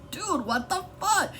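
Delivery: incredulous chuckle at a friend; laughing disbelief. Retold or imitated. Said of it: "looking at him like".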